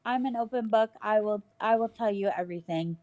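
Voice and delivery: speaking without teeth in; toothless. Real, not acted. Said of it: "Sorry, I don't have my teeth in".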